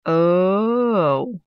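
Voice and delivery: a delighted little gasp. Acted. Aunts hearing about the poison apple, gasp. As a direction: gasp with sudden interest. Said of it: "gasped Aunt Nasty and Aunt Grouchy".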